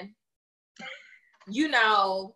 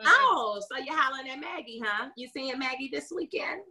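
sarcastic teasing; 3 semitones higher than usual. Retold or imitated. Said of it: "I make a little sarcastic stuff like".

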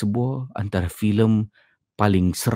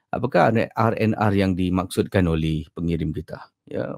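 usual speaking voice

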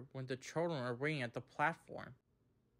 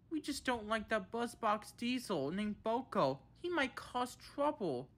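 high-pitched defensive plea; defensive excuse; 8 semitones higher than usual. A narrator's reading. Thomas and Percy explain themselves, defensively. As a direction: justify yourself in a raised voice. Engines make excuses when scolded.

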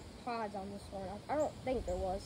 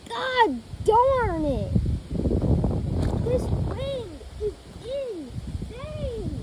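loud, slow yell; shouting over wind; 9 semitones higher, 10 dB louder, much slower than usual. Real, not acted. Yelling over strong wind.

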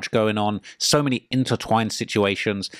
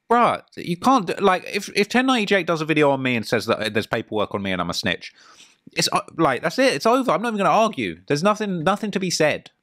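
exasperated disbelief; 5 semitones higher than usual. Real, not acted. Imagining being exposed, giving up.

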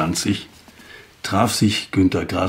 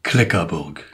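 recited title; 4 semitones lower than usual. Acted. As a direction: announce Kleckerburg like the start of a recital. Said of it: "Und ich trage Ihnen das Gedicht jetzt vor". (Kleckerburg als Gedichttitel vorgetragen)

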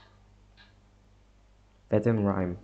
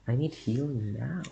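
a moaning plea, pitched up; moaned; 4 semitones higher than usual. Real, not acted. Wounded player moaning for healing mid-fight, moaned. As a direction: groan it out like you're hurt. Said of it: "God, I just moaned".

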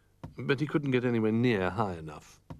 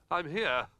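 small far-off cry; 6 semitones higher, 3 dB quieter than usual. Acted. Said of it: "cried a little voice from across the room".

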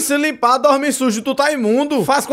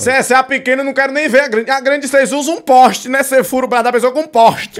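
hammed-up needle fear; mock fearful patient; 2 semitones higher, 4 dB louder than usual. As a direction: plead with the doctor over the needle.

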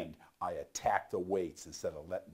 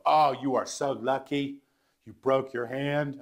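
higher, louder exclamation; envious roommates; 6 semitones higher, 6 dB louder than usual. Retold or imitated. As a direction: gush with envy, retold. Roommates envy his broken hand.

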